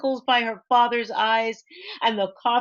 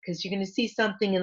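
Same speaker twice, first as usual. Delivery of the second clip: ordinary delivery, nothing marked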